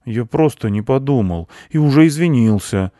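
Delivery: put-on mildly rueful boy; a touch of regret, excusing yourself; sad. A narrator's reading. Boy admits his bad deed, a little sadly. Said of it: "сказал грустно Миша".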